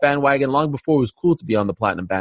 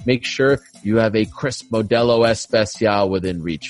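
measured announcer copy, slowing on the product name; sponsor ad read; 5 semitones lower than usual. Acted. Host reading beer copy to listeners, ad read. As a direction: read the sponsor copy, dropping low for the fine print.

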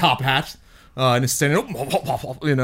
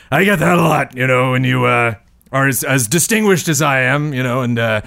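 bad fake British accent. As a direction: play a pompous Monopoly tycoon in a bad British accent. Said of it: "weird, bad, fake British accent".

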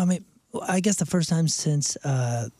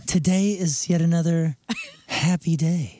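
sultry narrator; 3 semitones higher, slower than usual. Shown as a demonstration. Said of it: "just talk like this".

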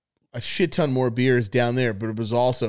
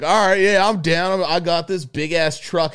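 eager retold agreement; 5 semitones higher, 4 dB louder than usual. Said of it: "So I was like".

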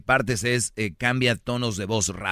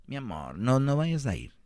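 mock cooing girlfriend; 3 semitones higher, 3 dB quieter than usual. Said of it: "está hablando así".

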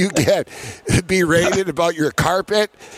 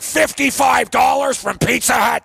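mock outraged yell; 5 semitones higher than usual. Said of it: "he's like".

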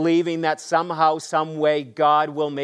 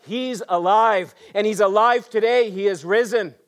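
louder and higher, ringing out He's alive; jubilant proclamation; 5 semitones higher, 3 dB louder than usual. Real, not acted. Preacher to congregation on Easter morning, jubilant and loud. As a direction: proclaim it like the best news ever.

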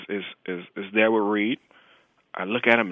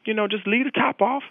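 higher, step-by-step instructions; walk him through it patiently; explaining to a friend how to handle the snake; 9 semitones higher than usual. Retold or imitated.

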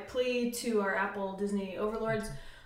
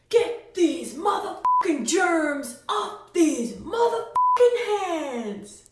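higher, louder, slow furious shout; Nick Fury impression; 7 semitones higher, 7 dB louder, much slower than usual. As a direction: bark it like an enraged Nick Fury. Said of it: "my character is Nick Fury".

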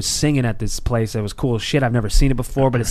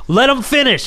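imagined crowd shout; 10 semitones higher, 4 dB louder than usual. Retold or imitated. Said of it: "people are gonna go".

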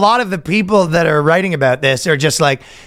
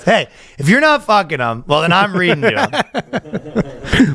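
slow punchline delivery; slower than usual. Acted. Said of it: "he goes".

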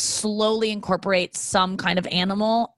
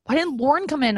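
higher-pitched mock self-pity; mock sad; 6 semitones higher than usual. Wondering why sister didn't come in, mock sad. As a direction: play up being left alone. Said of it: "I was, like, so sad".

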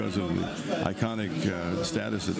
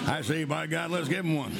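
put-on booming old-timey character voice; a hearty cartoon character; 6 semitones higher than usual. Shown as a demonstration. Voice actor doing a character.

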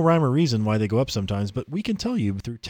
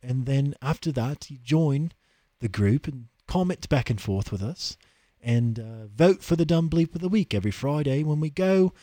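put-on London accent; 2 semitones higher than usual. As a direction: sell it in a posh London accent. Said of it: "coming from an accent like that".

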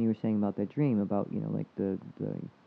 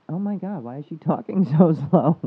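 exasperated inner voice; 6 semitones higher, 9 dB louder than usual. Retold or imitated. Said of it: "I'm like".

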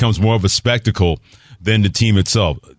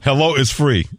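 excited quote; 4 semitones higher than usual. Retold or imitated. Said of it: "I like that".

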